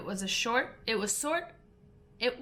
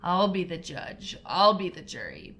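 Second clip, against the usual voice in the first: purring cunning cat; 2 semitones lower than usual. Acted. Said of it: "purred cunning old Furry".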